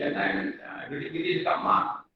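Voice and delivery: put-on hushed, breathy half-whisper to a child. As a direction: shush the little one close by. Grandmother hushes grandchild in story.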